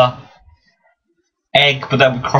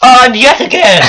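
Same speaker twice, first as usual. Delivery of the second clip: laughing; 11 semitones higher, 8 dB louder, slower than usual. Real, not acted. Gloating laugh at partner.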